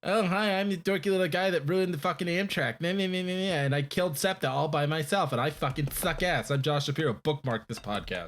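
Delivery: mock him as a dorky loser; dorky little guy. Mocking a local politician's podcast boast, dorky little guy voice. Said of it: "he's just like".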